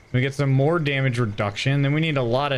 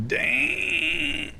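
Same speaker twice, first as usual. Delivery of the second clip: high dang. Pretend. Repeating the word in different voices.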